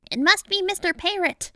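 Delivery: high-pitched crowd guess; high storybook crowd voice. A narrator's reading. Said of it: "the crowd guessed".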